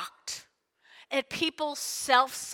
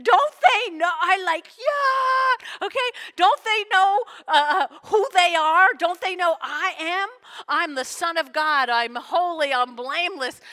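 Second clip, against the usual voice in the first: exasperated indignation; 3 semitones higher, 5 dB louder than usual. Acted. Voicing exasperated Jesus.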